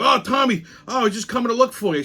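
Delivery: high, hurried greeting in imitation; excited colleague. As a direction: act out someone rushing up to Tommy. Colleague running up, greeting him.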